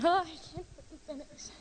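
tearful, can't get the words out; choked up. Real, not acted. Girl sharing her Haiti trip, breaking into tears. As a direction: voice breaking, fading to almost nothing. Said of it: "gonna cry".

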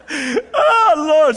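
high laughing cry of oh. Real, not acted. Preacher cracking up at his own joke, laughing. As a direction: break up laughing on oh.

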